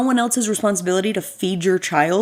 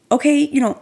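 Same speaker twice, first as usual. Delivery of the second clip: higher, louder, overly nice hurry-up; sweetly urging the dad to let her go; trying to be nice; 6 semitones higher, 4 dB louder than usual. Retold or imitated. Mom greeting the rude dad, high and overly nice. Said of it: "she's trying to be nice".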